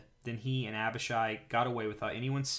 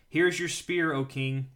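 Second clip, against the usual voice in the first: raised call, higher and louder at the start; calling across; 4 semitones higher, 7 dB louder than usual. A narrator's reading. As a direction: call out to a king at a distance. David calls across to the king.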